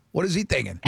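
normal talking voice

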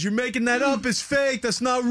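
high mock shout, pitched well up; heckler shouting. Biker heckler calling the story fake, mock shout. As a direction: yell it like a drunk heckler calling a bluff. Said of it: "He goes".

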